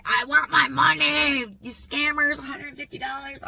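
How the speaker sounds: mock his whining; a hint of a petulant man; mocking brother-in-law. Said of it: "He was like".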